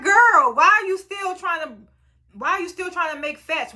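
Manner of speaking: high-pitched, acted exasperation; exasperated scolding.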